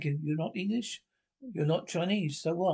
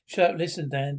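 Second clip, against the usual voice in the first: loud shut up; 5 dB louder than usual. Acted. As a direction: bark it out, louder. Silencing the boxer.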